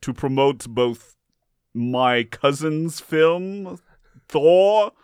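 booming Norse god. Acted. God plugs his cousin's film.

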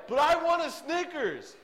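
put-on high, slow whining child; whiny toddler. Kid begging mom for a Snickers, whining high. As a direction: beg like a toddler denied candy.

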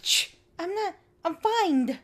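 mock sick voice; congested denial. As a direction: push through a cold. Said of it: "sneezing and dripping".

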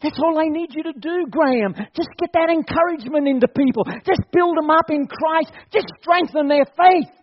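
voicing God. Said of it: "God says".

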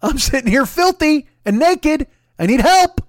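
high, loud, slow desperate plea; Catherine Martin. Acted. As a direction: wail for help like a trapped captive. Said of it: "I'm Catherine Martin in The Well".

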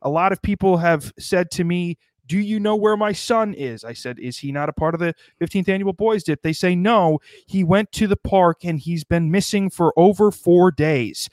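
a hint of a cheesy field reporter handing back to the studio; mock news reporter. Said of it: "That's a Tim and Eric bit".

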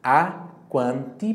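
"a quanti" said slowly, with a clean T; pure T. Shown as a demonstration. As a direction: model "a quanti" with a crisp T. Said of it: "atenção para a pronúncia pura do T aqui".

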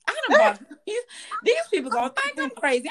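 high, laughing through the words; laughing embarrassed. Retold or imitated. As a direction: giggle it out, mortified. Embarrassed about the lifestyle event.

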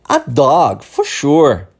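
"A dog, for sure" with a firm falling finish; falling intonation. Shown as a demonstration. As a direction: model "for sure" clearly, tune falling. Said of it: "eu repito pra você repetir".

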